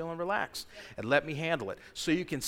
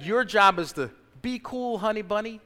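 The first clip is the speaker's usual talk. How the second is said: tender God voice; 5 semitones higher, 5 dB louder than usual. Retold or imitated. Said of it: "He said".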